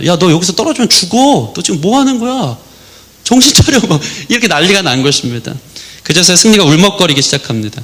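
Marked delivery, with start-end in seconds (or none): 0.1-3.8 panicked, high, rising, alarmed scolding tone. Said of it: "막 잔소리를 한 거예요".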